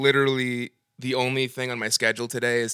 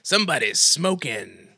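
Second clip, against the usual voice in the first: Mask impression; 2 semitones higher, slower than usual. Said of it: "here's the guy from The Mask".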